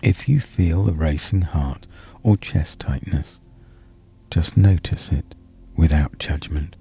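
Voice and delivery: calm meditation delivery with long pauses; guided body scan. Real, not acted. Hypnotherapist easing tension from head to chest, calm guided meditation. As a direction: ease the listener downward, phrase by unhurried phrase.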